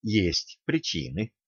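hedge, eyes on the door; hesitant, evasive. Acted. Young man stalling the coach, edging toward the door, quietly. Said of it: "замялся юноша".

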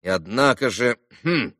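ordinary delivery, nothing marked

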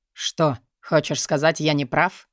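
low, unhurried smirk. Acted. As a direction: tease her with a grin in the voice. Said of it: "ухмыльнулся тот".

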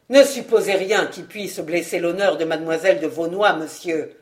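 stern rebuke, low and firm. Acted. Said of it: "ajouta-t-il avec sévérité".

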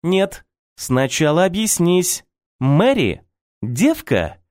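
high, sharp rapid-fire questions; interrogating mother. A narrator's reading. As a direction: grill him like a suspicious mother. Mother interrogates son about Mary. (мать допрашивает сына о девушке, требовательно)

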